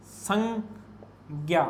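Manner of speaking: संज्ञा said as "sang-gya", slowly split in two; colloquial pronunciation. Shown as a demonstration. Teacher shows students the everyday spoken form, colloquial pronunciation. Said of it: "व्यवहारिक रूप में संज्ञा शब्द बोलते".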